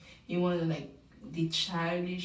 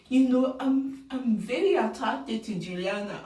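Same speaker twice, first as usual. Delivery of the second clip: louder, higher eager confession; imitating Grant; 3 semitones higher, 5 dB louder than usual. Host quoting Grant's repeated confession, lightly voiced. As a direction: play him gushing about her. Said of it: "Khan tell us again".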